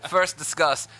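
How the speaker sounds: a hint of a courtly old Southern gentleman. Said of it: "do the Southern Gentleman voice".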